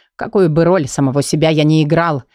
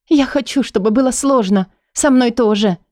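higher woman's voice, earnest and eager; Leila, eager; 7 semitones higher than usual. Acted. Лейла отвечает Каю с готовностью, высоким женским голосом. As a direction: she answers him with quick resolve.

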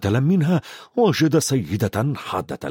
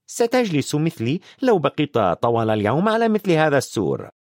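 a touch of a stern witch; dry and a little tart; McGonagall dry; 3 semitones higher than usual. Acted. McGonagall tells Dumbledore about her long day, dry.

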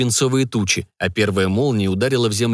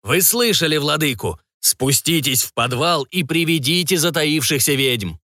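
higher, slow, eerie commanding voice; proclaiming; 4 semitones higher than usual. Acted. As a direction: proclaim orders like a possessed mentor. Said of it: "он вещал".

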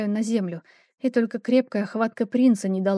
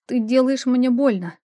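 pained cry; 3 semitones higher, 4 dB louder than usual. Acted. Struggling against his grip.

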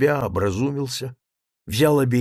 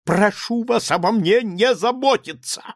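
high, loud, pleading anger; agitated protest; 9 semitones higher, 4 dB louder than usual. A narrator's reading. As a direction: burst out in agitation. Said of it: "продолжал Лаевский". (взволнованный протест)

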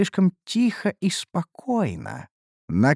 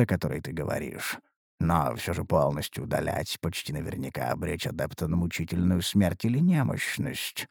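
low, grave ancient spirit; a deep-voiced elder spirit cautioning; old spirit voice; 11 semitones lower, 7 dB quieter than usual. Spirit answers the adept. (низкий голос древнего духа)

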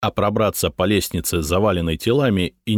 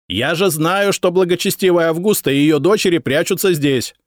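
higher, louder insistent shout; 10 semitones higher, 4 dB louder than usual. A narrator's reading. Shishka shouting at the decurion, loud. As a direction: shout it down into the cellar. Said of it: "крикнул Шишка".

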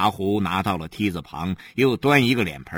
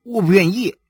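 put-on boyish flat refusal, a bit louder; sulky refusal; 9 semitones higher, 5 dB louder than usual. Stubborn son refusing his mother, higher and louder.

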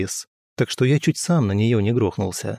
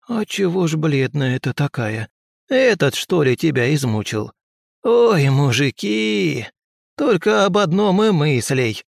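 higher, slow crone lament; fussing old woman; 5 semitones higher, slower than usual. Acted. Old healer grumbles to the girl about men. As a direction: wail about men like a scolding granny.

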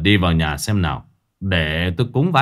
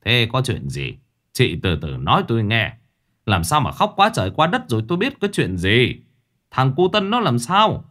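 tearful sobbing plea; 12 semitones higher than usual. A narrator's reading. A weeping mother begs the master to save her son. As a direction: beg through tears, voice pitched way up. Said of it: "bà Tám mếu máo khóc".

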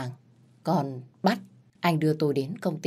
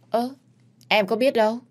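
surprised denial; 7 semitones higher, 4 dB louder than usual. Acted. Wife protests innocence to husband.

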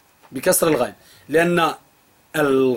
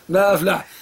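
laughing. Real, not acted. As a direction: laugh as you repeat it. Laughs repeating the quote. (ضحكة عالية مع الكلام)

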